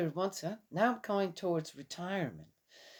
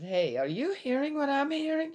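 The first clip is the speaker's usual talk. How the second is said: high-pitched call across the house; mock holler over to someone, pitched well up; retold hollering; 10 semitones higher than usual. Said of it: "I'm hollering over to Sissy".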